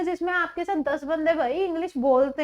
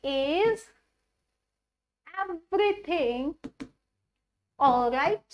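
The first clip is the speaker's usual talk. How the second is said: very slow with long pauses between words; slow dictation; much slower than usual. Shown as a demonstration. Teacher dictating the question to students, very slow. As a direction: spell out each word with gaps. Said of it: "उसको हम बोलेंगे जी".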